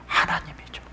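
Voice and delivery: barely voiced, reverent reply; whispered answer. Real, not acted. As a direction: drop suddenly to a whisper. Preacher answers own question.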